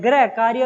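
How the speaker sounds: गृह said as "grai", with an ai vowel; children's mispronunciation of गृह. Shown as a demonstration. Teacher quotes what some children write, mispronouncing गृह as "grai". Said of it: "कुछ बच्चे लिखते हैं".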